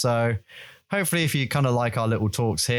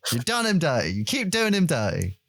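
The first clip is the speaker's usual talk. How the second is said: raised-pitch indignant complaint, half joking; mock indignant rant; 5 semitones higher than usual. Real, not acted. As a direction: scold the BBC in mock outrage. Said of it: "And it pisses me off".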